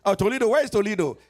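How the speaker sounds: quick, disbelieving caller; lightly voiced surprised caller; mock surprise. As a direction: rattle it off as the baffled caller.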